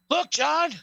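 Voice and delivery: hammed-up Rock promo voice; Rock impression. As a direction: lord it over Cena like The Rock. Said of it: "The Rock goes".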